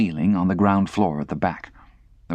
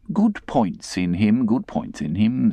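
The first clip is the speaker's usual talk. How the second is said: smug gentleman; 2 semitones higher, slower than usual. Acted. Raymond, slow.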